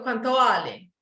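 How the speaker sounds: "cuánto vale" said flat and falling like a paisa; flat paisa intonation. Shown as a demonstration. Teacher imitating flat paisa speech. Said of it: "we speak terrible and we speak flat".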